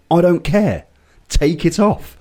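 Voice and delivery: dismissive ref. Retold or imitated. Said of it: "you went".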